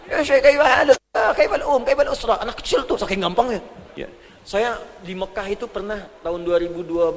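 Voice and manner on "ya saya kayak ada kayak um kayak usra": put-on child speaking Arabic.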